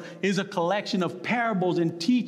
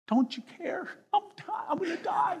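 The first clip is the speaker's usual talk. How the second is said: high-pitched mock panic; Peter panicking; 12 semitones higher, 4 dB quieter than usual. Big Peter pleading with Jesus in the storm, comically panicked. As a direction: squeal it like a big man terrified of dying. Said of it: "So just imagine Peter".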